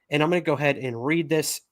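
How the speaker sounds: talking through hiccups; hiccuping between words. Real, not acted. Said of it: "I'm hiccuping like crazy tonight".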